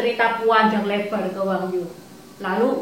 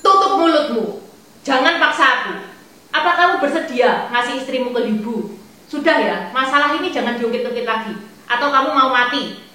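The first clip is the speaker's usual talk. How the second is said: angry; 2 semitones higher, 3 dB louder, faster than usual. Acted. Father-in-law snapping in anger.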